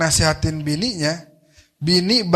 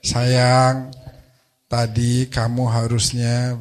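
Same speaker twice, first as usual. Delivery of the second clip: tender pet name; 4 semitones lower, much slower than usual. Retold or imitated. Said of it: "panggilan sayang gitu ya".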